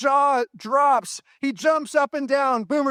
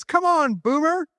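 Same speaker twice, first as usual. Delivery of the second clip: king calling; 6 semitones higher than usual. Acted. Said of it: "He calls for one of his servants".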